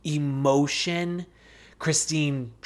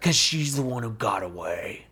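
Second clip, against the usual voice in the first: whispered, lower, wistful parody; mock-dramatic whisper; 7 semitones lower, 4 dB quieter than usual. Teasing Cody's longing for Christine, whispered. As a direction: breathe it like a sad ballad line.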